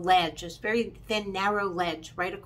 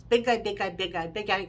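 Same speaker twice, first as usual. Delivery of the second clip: rapid-fire list of big guys; rattled off fast. Shown as a demonstration. Listing the row of big contestants as fast as she can. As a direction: try to rattle it off at speed. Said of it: "I can't even say it that fast".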